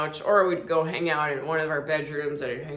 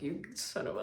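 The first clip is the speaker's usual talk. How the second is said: breathy whispered half-curse; 10 dB quieter than usual. Retold or imitated. Dad cursing at her messy fridge, whispering. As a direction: mutter the curse under your breath. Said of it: "I just hear him whispering".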